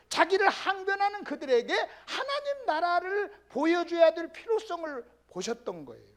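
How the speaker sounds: normal talking voice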